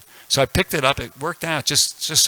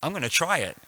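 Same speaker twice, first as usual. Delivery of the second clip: resolved; 7 semitones higher than usual. Retold or imitated. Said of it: "I said".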